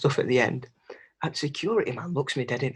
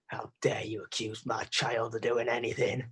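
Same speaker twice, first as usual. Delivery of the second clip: mum's outrage; 4 dB quieter than usual. Retold or imitated. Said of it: "she's like".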